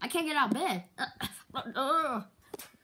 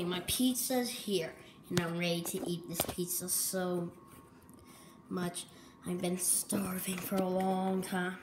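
breathy whisper to herself; 5 semitones lower, 6 dB quieter than usual. Acted. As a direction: whisper it like a secret snack. Eating alone, whispering to herself.

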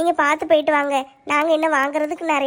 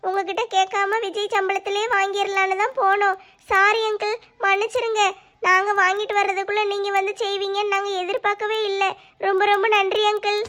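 slightly raised, emotional pleading; tearful apology; 2 semitones higher than usual. Acted. Daughter-in-law apologises and thanks her uncle, tearful. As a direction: apologise earnestly, close to tears.

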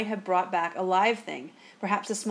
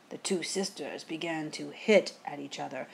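softer, lower spooky storytelling; hushed, spooky; 4 semitones lower, 6 dB quieter than usual. A narrator's reading. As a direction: hush it for an eerie ending. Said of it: "ending in a hushed, spooky tone".

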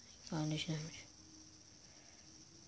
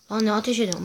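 angry shout; 3 semitones higher, 6 dB louder, much faster than usual. Real, not acted. Shot at by game character.

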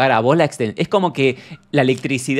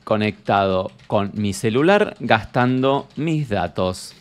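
slow dictation; 2 semitones lower, 4 dB quieter, slower than usual. Pretend. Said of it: "Le voy a poner".

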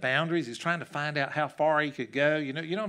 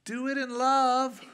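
sweet voice; 10 semitones higher, 5 dB louder, slower than usual. Retold or imitated. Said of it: "that sweet voice".

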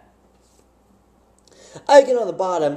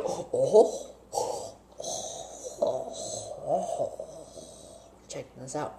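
a hint of an imitated Asian accent, much softer and lower; breathy, hushed mock voice of the stranger; 6 semitones lower, 14 dB quieter, much slower than usual. Imitating the Asian driver eyeing the van, lightly voiced hushed mock accent. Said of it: "I hope that didn't seem racist".

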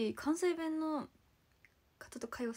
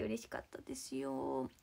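soft whisper; 10 semitones lower, 4 dB quieter, slower than usual. Real, not acted. Intimate thanks to fan.

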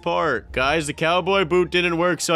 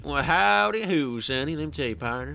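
drawled Southern "howdy who"; lightly hammed-up Southern cowboy; Southern accent. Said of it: "No more southern accents".

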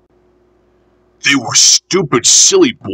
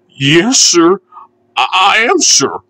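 higher, hesitant small voice; muffled reply; 8 semitones higher than usual. A narrator's reading. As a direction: stammer a small muffled answer. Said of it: "a muffled voice replied".

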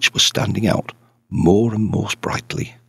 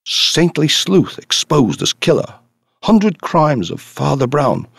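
slow, higher mock headline read; a hint of a tabloid crier; 6 semitones higher, 3 dB louder than usual. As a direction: announce it like a splashy newspaper headline. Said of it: "saw it splashed all over the papers".

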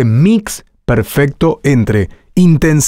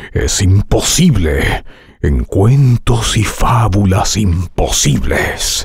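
slow, awed trailer read; wide-eyed wonder; 4 semitones lower, slower than usual. Shown as a demonstration. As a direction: open your eyes in amazement. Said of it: "y abriendo los ojos, dices".

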